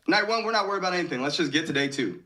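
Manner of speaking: retold brisk rallying talk; quick team pep talk. Team hyping each other up.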